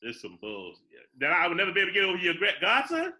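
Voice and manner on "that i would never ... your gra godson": quick, climbing to a high question; rushed, incredulous comeback; incredulous echo. Real, not acted. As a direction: throw it back in disbelief, pitch leaping at the end. Throws friend's remark back at him.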